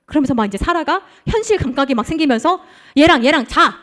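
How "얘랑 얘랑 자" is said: louder, brisk mock command; half-acted loud wife's command; retold bossy order. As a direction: snap out the order like a fed-up wife. Sarah ordering Abraham, retold.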